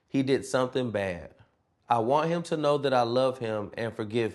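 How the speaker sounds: put-on measured recital of a child's poem; poem reading. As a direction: read it out line by line, pausing after each. Reads a student's poem aloud.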